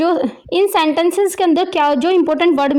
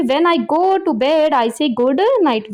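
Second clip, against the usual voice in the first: slow reading; much slower than usual. Shown as a demonstration. Teacher reads the sentence to students.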